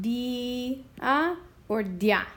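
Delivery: dia first glided as one syllable, then split di-a; comparing dia. Shown as a demonstration. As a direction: contrast dia merged and dia split. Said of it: "I wanna break 'em apart".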